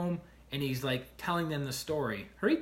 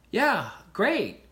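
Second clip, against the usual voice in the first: a flat, bored "Yeah, great", louder and higher; dismissive; 6 semitones higher, 7 dB louder than usual. Retold or imitated. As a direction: brush him off, mock unimpressed. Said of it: "not in a space of listening".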